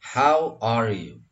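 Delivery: slow, loud model of "How are you"; linked pronunciation. Shown as a demonstration. Teacher models the greeting, linked pronunciation. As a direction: draw out "How are you" as one phrase. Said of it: "bagaimana mereka biasa melakukannya".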